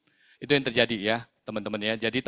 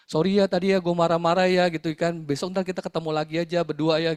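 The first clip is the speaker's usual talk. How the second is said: higher-pitched imitation of a coaxing man; wheedling apology; 5 semitones higher than usual. Man asking agent to meet alone again, wheedling. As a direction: mimic a sheepish apology, pitched up.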